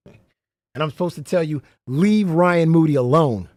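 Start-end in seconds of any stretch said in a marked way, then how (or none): 1.9-3.5 slow, louder finger-pointing warning; half-joking scolding; mock stern warning. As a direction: wag a finger and tell them off, slowly. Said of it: "I'm supposed to point at you like this".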